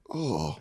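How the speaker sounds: soft drawn-out "oh"; quiet mock groan of realization; reenacted reaction. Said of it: "I went like this".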